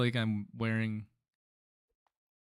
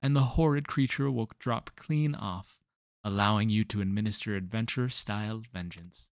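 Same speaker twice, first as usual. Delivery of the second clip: louder, doting on his trees; fussy gardener voice; 5 dB louder than usual. Acted. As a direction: fret over his poor trees, loudly. Irate NPC Gabino ranting.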